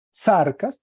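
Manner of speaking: "sarcas" stressed on the first a; "sarcas" with its first syllable marked; acute on A. Shown as a demonstration. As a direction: lean firmly on the "sar" of "sarcas". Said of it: "tiene acento agudo en la A".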